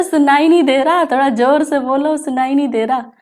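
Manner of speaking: a hint of impatient caller; casual everyday way. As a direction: brush it off like a real phone call. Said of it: "ऐसे बोलते हैं".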